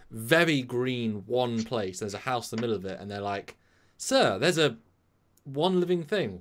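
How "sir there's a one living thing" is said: alarmed crew report. Retold or imitated. Crew member reporting to captain.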